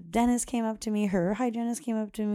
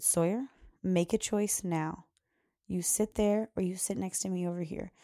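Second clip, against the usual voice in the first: gentle but firm. Retold or imitated. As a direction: set a clear choice, kindly but steady. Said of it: "gentle but firm".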